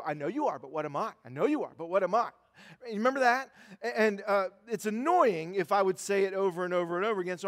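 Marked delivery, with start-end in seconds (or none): 0.0-2.3 imitating a kid's sing-song taunt, pitched lower; playground taunt. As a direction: chant it twice like a mock schoolyard comeback. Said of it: "when you were really little".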